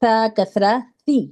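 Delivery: slow "سا کسرہ سی" ending in ee; clear ee ending. Shown as a demonstration. Teacher drilling kasra for students, slow with ee at the end. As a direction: sound out "سی" with a clean ee. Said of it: "ای کی sound آئے گی".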